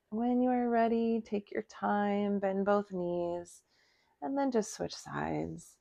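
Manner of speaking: slow, drawn-out breath cues; guided relaxation. Acted. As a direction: stretch the words out, leaving room to breathe. Guides breathing between poses.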